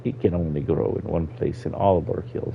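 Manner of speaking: old Argonian voiced with a Jamaican lilt; light Jamaican accent for the elder. Old Argonian explaining the lost forest to a child, Jamaican accent. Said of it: "giving him a Jamaican accent".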